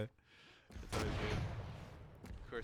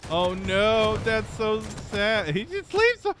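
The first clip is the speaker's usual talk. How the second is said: much higher and louder, squealing; excited shriek; 10 semitones higher, 9 dB louder, slower than usual. Real, not acted. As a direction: shriek with delight at the play. Caster reacts to funny play.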